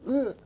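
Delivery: short straining grunt; effort grunt. Shown as a demonstration. Showing his green-screen take, a short effortful grunt. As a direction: grunt as if dragged away. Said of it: "like that".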